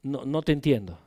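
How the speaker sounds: low, soft and patient; calm grandfather. Retold or imitated. Grandfather to his crying grandson, calm and low. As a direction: settle a worked-up child, quietly.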